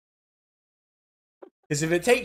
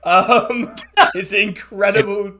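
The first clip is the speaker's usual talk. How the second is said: laughing; 3 semitones higher, 5 dB louder than usual. Real, not acted. Game master cracking up at a player's RuPaul joke, laughing. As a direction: talk through a real fit of laughter.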